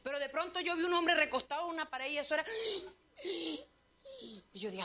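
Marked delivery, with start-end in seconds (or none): 3.2-3.6 high-pitched mock sob; imitated sobbing. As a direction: imitate a man sobbing against a wall. Imitates the crying man's sobs.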